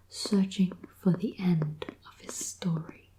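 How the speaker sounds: reading the back cover in a whisper; whispered blurb reading. Acted. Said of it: "I'll read the back for you".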